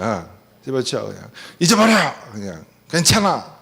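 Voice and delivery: brushing off, impatient "집어쳐"; mock a dismissive spouse shutting down feelings; dismissive scolding. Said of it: "우리는 주로 뭐라고 얘기하는 줄". (속상한 배우자를 무시하며 타박하는 말투)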